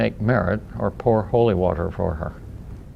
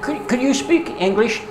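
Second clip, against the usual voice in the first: ghost voice; 7 semitones higher than usual. Acted. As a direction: moan it like a timid ghost. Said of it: "started saying in the ghost voice".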